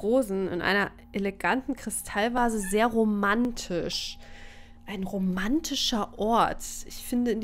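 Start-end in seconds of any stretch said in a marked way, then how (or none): 2.6-6.6 slow, drawn-out mock swoon; dreamy, teasing tone; mock romantic. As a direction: savour each word with irony. Mocking the item text.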